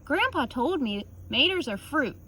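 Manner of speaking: usual speaking voice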